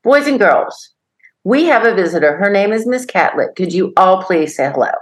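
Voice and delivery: mock grown-up kindergartner making introductions; five-year-old playing teacher. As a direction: imitate a small child addressing the whole class. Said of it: "Brandon stood up and he said".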